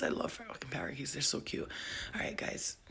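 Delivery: soft late-night whisper; whispered goodnight to the viewers. Real, not acted. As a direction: whisper it so nobody wakes.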